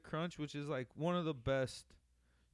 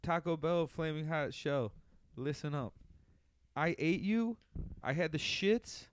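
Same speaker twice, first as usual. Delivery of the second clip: wrestling promo; 3 semitones higher, 6 dB louder than usual. Pretend. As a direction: call out the taco like a wrestler. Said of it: "You wanna put a promo on it?".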